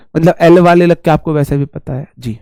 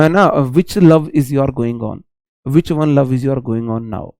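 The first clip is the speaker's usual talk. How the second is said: slow teasing question; 3 semitones lower, much slower than usual. Acted. Mock English question to student.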